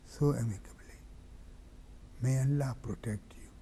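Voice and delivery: hushed, mournful preaching that drops to a whisper; grieving sermon recital. Acted. Preacher recounts Hussein's farewell in mournful hushed tones.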